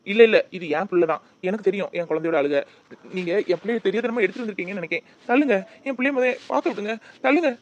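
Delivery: loud, pushing past; father loudly demanding to see the baby; desperate shout. Acted. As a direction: insist he hears his child.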